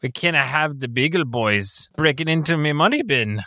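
hammed-up Scottish burr, rising in pitch; Scrooge McDuck. Contestant giving his best Scottish accent, cartoonish Scottish. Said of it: "most Scottish character ... Scrooge McDuck".

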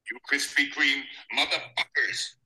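soft, clipped Boston accent on "Krispy Kreme". Shown as a demonstration. Trying the line in a Boston accent, softly. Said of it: "he does it in a Boston accent".

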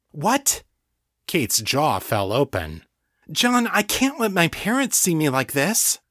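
Kate, horrified, protesting in disbelief; shocked protest. Acted. Kate to John, protesting in shocked disbelief.

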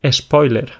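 spoiler with an added E, espoiler; Spanish-style spoiler. Shown as a demonstration. Explaining to a co-host how Spaniards say it, espoiler. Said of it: "sino que decimos".

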